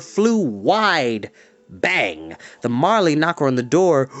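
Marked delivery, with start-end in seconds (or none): none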